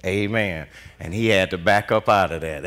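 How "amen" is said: normal talking voice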